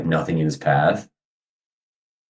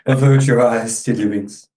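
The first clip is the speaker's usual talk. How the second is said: grave warning voice; 5 semitones higher than usual. Acted. GM voices red panda scene.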